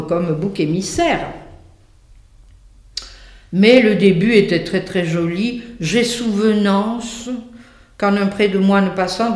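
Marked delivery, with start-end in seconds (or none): 5.8-9.3 slow recollection. Acted. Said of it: "il est obligé de faire appel à sa mémoire".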